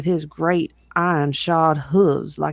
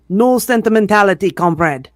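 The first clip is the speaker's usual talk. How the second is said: cried out; 5 dB louder than usual. A narrator's reading. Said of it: "cried Snowball".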